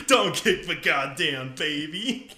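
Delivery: slow scolding while laughing. Real, not acted. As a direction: tell them off mid-laugh.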